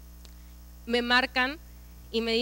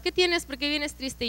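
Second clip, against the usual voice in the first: higher-pitched imitation of concerned roommates; retold worried questions, pitched up; concerned questioning; 3 semitones higher, 5 dB quieter, slower than usual.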